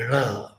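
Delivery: "ra" with a retroflex r, tongue tip curled back; curled tongue heavy consonants. Shown as a demonstration. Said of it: "retroflex sounds like".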